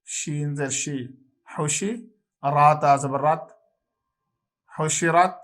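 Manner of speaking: measured sing-song spelling recitation; a steady spelling chant for children; qaida spelling drill. Acted. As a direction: spell each syllable out steadily like a class drill. Teacher resumes spelling drill.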